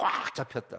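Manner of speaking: 꽉 punched out forcefully with hard stress. Showing how the korean phrase needs accent: strong stress on 꽉. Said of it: "이 한국말은 좀 이렇게 악센트가 있어야 돼".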